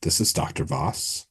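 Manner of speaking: a hint of sultry, barely voiced; lightly voiced sultry woman. Doctor Voss picks up the detective's call, lightly sultry. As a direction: answer the call with understated sultriness. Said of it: "a sultry female voice say".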